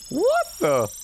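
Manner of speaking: slow, high, stunned "what the?". Real, not acted. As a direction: drag it out high in disbelief. Shock after yelp.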